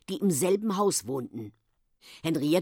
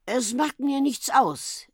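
friendly, higher-pitched unhurried reply; slow, higher, obliging snake voice; 8 semitones higher, slower than usual. A narrator's reading. Snake's head obliging Onkel Titus, friendly. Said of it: "erwiderte der Kopf freundlich".

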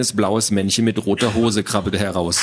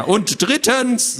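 very high, slow pedantic counting; squawky insistence; 12 semitones higher, much slower than usual. Acted. Little man cuts off the girl with another point, squawky. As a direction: draw out the next point fussily. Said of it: "eine quäkende Stimme".

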